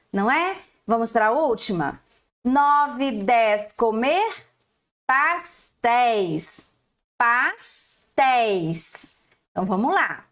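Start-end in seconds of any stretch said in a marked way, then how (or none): 5.1-9.2 very slow "pastéis", syllables apart; slow split. Shown as a demonstration. Teacher splitting "pastéis" for young pupils. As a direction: stretch "pastéis" out slowly. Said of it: "Primeiro pedacinho".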